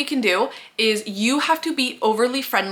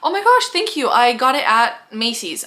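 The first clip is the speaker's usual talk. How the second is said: flattered reply; 4 dB louder than usual. Acted. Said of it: "Or he'll, whatever".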